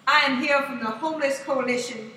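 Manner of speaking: lightly voiced public pitch to a carriage; mock announcer opening of a beggar's spiel; subway panhandler spiel. Panhandler addressing the train riders, mock spiel. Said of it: "he'd be like".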